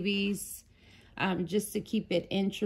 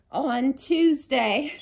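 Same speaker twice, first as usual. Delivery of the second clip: laughing; 5 semitones higher, 6 dB louder, slower than usual. Real, not acted. Excited about Tuesday video.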